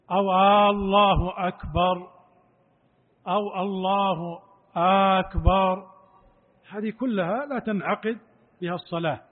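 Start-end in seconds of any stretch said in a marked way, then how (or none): 0.7-2.1 الله أكبر drawn out, الله stretched; wrong stretching. Shown as a demonstration. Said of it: "لا يقول". 3.6-5.9 أكبر drawn out very long; wrong stretching. Shown as a demonstration. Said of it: "لا يقول".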